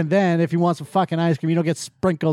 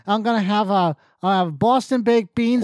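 put-on higher, hammy Massachusetts accent; bad Massachusetts accent; 4 semitones higher than usual. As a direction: imitate an actor botching Massachusetts. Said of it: "accent from Massachusetts".

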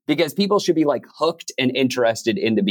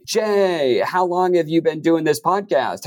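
higher, eager "Jay, how long have you been doing this podcast?" that runs on; rambling interviewer; 6 semitones higher than usual. Shown as a demonstration. Interviewer piling questions on guest Jay, higher and eager. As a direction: fire it off like the first of many questions. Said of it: "So instead of being like".

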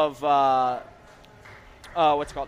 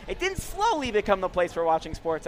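slowly stressed. Shown as a demonstration. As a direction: lean on the word slowly. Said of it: "It quickly became the place for watching sports".

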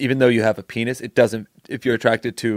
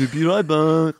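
higher, hammed-up French accent; 6 semitones higher than usual. Shown as a demonstration. Host repeats the sign-off in a French accent. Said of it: "Now do it in a French accent".

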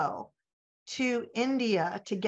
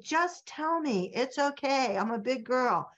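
coaxing insistence; 4 semitones higher than usual. Retold or imitated. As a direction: lightly re-enact urging someone to speak, pitch easing down. Retelling her plea to translator.

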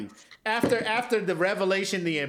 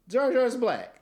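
high, slow Jar Jar impression with a laugh; high slow Gungan voice; 7 semitones higher, 3 dB louder, slower than usual. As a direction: squeak it out like the Gungan. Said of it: "Misa, oh, I see".

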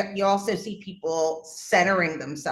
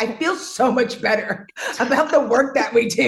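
real laughter breaking into the words; amused, laughing delivery; 4 semitones higher, 4 dB louder than usual. Real, not acted. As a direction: say it through a delighted laugh. Laughs while praising the work.

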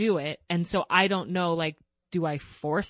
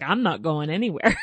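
teasing daughter; 2 semitones lower than usual. Retold or imitated. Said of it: "She's like".

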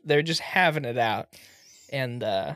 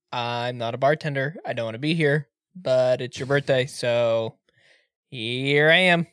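grumpy doctor; 4 semitones lower than usual. Retold or imitated. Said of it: "classic doctor".

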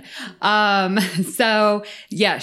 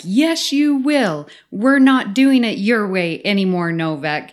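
imitating a stern Romulan commander; stern commanding officer; 2 semitones higher, 4 dB louder than usual. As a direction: lay down the law to a subordinate. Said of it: "sternest possible voice".

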